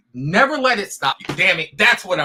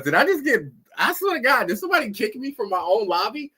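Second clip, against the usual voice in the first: incredulous surprise; 6 semitones higher than usual. Real, not acted. Kicked from own lobby.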